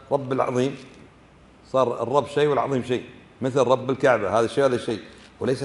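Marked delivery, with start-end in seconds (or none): 0.1-0.8 رب العظيم linked as rabb-il, no ya; wrong pronunciation. Shown as a demonstration. Teacher quotes a mistaken worshipper, mispronounced demonstration. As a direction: drop the ya from رب, ending on a rise. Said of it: "إذا قال الإنسان".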